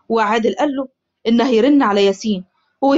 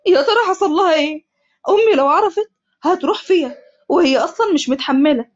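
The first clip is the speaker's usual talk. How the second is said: crying; 4 semitones higher than usual. Acted. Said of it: "حمزة ببكاء".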